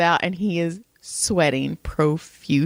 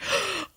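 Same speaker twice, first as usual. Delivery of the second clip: delighted gasp; 11 semitones higher, 7 dB quieter than usual. Retold or imitated. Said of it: "And I was like".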